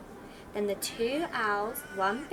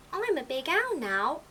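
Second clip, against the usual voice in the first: little owl voice; 5 semitones higher than usual. Acted.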